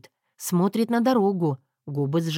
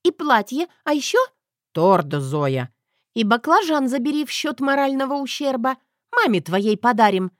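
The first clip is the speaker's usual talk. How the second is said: higher, louder demanding voice; bossy Zoya; 6 semitones higher, 3 dB louder than usual. Acted. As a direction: order him around, spoiled. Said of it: "приказала бестия".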